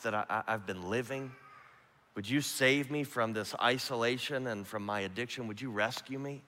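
soft, quiet pleading prayer; quiet desperate prayer in a dorm room; hushed prayer. Retold or imitated. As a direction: pray it low, alone on your knees. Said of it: "I just prayed this prayer".

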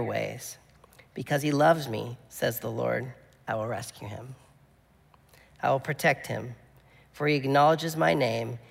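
measured, solemn psalm reading; scripture reading. Acted. Pastor reading a psalm to the congregation, solemn and measured. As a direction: read it so it washes over them.

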